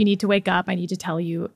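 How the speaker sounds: understated grave wake-up, dropping at the end; retold serious voice. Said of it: "in a very serious voice".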